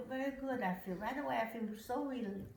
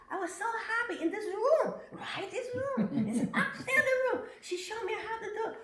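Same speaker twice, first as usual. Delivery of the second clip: high, loud and laughing; bubbling over with joy; giggling while telling the happy news; laughing excitedly; 11 semitones higher, 6 dB louder than usual. Real, not acted. Excited laughing retelling of orbs.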